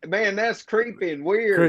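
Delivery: slow, drawn-out Southern catchphrase; Southern drawl. Shown as a demonstration. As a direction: draw out CREEPY and WEIRD in a Southern drawl. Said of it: "that little southern drawl".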